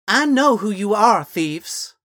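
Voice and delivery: put-on high, loud accusing girl voice; girl's shout. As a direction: catch them out, shouting high. Girl surprises them from behind.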